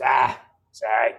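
lightly imitated old actor brushing off pain; a hint of a heavy old star's voice; James Coburn. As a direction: shrug it off as the ageing star. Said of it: "He goes".

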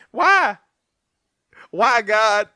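loud, high cry to heaven; mock anguished cry. Co-host lamenting to God over the joke, mock anguish. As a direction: wail it up at God.

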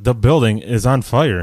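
mock calm fire alarm; calm announcement voice. Host imitating the film's fire alarm, calm announcement voice. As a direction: announce danger with no alarm at all. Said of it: "It's like this calm voice".

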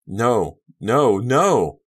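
rising panicked cries of no; desperate horrified shouts; anguished cry. A narrator's reading. Kerry sees Amanda dead.

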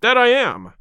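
loud, high defiant cry. A narrator's reading. McMurdo springs up to accept the fight, defiant cry. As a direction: cry it out, rising to the challenge. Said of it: "cried McMurdo".

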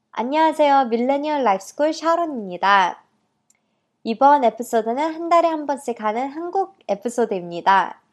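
Korean with an American accent; halting heritage-speaker Korean. Real, not acted. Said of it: "제가 솔직히 한국말이 되게 서툴고". (미국 교포 억양의 한국어)

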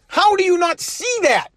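high frustrated shout; exasperated shout. Real, not acted. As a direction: yell it in outrage at the blindness. Exasperated at the president's optics.

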